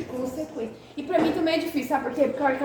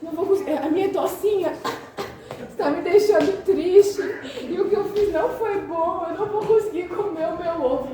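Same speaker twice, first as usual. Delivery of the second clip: hammed-up whiny little girl, higher; dramatic child; 5 semitones higher, 3 dB louder than usual. Mother mocking her dramatic daughter at breakfast, whiny child voice. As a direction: imitate a dramatic toddler, laughing through it. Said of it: "ela é dramática".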